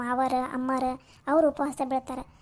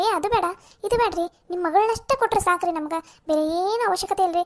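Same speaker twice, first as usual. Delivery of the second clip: higher-pitched mimicry of a self-important talker; mock know-it-all; 5 semitones higher, 4 dB louder than usual. Sister mimics relative grandly refusing dowry talk, mock know-it-all. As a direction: imitate someone holding forth like a great genius. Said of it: "ದೊಡ್ಡ ಮೇಧಾವಿ ಥರ".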